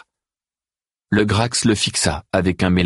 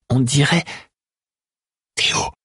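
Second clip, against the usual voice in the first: higher, surprised recognition; exclaiming; 8 semitones higher than usual. A narrator's reading. Zoé recognising Théo in the dark, surprised exclamation. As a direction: blurt out the name in surprise. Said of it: "s'exclama Zoé".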